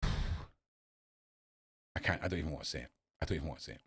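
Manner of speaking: low, very soft aside; hushed, reluctant murmur. Real, not acted. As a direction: say it quietly, holding back. Reluctant to say the comparison.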